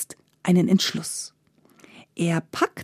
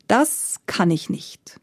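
grim reaper voice; slower than usual. Acted. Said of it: "antwortete der Tod".

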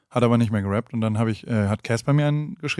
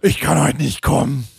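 Margret. Retold or imitated. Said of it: "Margret hat immer auch so".

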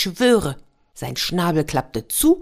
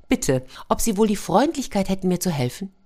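tin soldier; 5 semitones higher than usual. Acted. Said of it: "tin soldier pleading".

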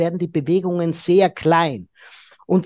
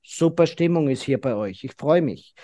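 lukewarm enthusiasm; 4 semitones lower than usual. Retold or imitated. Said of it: "mit den Händen vorm Schritt verschränkt".

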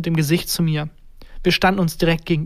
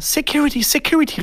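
calling out; 9 semitones higher than usual. A narrator's reading. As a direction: call for help in a raised, high voice. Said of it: "rief die Frau aus der ersten Reihe". (hoch gerufener Hilferuf einer Frau)

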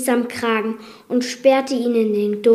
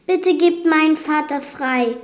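pleading; 6 semitones higher, 4 dB louder than usual. Acted. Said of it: "flehte Belle".

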